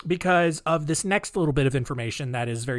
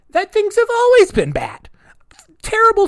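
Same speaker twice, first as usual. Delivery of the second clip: loud stage whisper; 9 dB louder than usual. Acted. Dramatic point about bad times.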